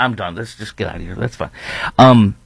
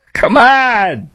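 high laughing come on; cracking up, pleading mock; 12 semitones higher than usual. Real, not acted. Laughing at producer memory.

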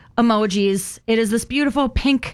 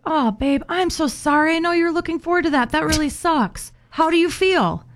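sympathetic husband demo; 5 semitones higher than usual. Shown as a demonstration. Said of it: "Be like".

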